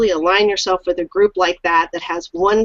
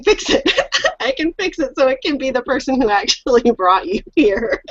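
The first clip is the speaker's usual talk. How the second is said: laughing; 3 semitones higher than usual. Real, not acted. Offering to fix sign-up mistakes, laughing. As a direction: talk through real laughter.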